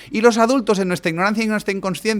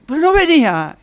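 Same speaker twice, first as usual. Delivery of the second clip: put-on high, loud whining child voice; disappointed child; 12 semitones higher, 7 dB louder than usual. A small child complains that Messi never came, whining high and loud. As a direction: wail it like a let-down little kid.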